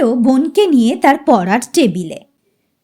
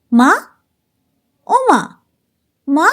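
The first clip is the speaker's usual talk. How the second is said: put-on child's call. Child Runa pesters mother. (শিশুর আবদারের ডাক)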